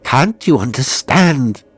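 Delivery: high, loud anguished plea; despairing moan. Acted. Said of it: "it moaned".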